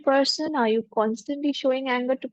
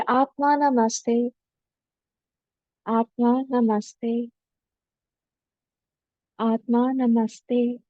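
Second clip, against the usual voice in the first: gentle, humble; slower than usual. Shown as a demonstration. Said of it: "Very gently, very humbly say".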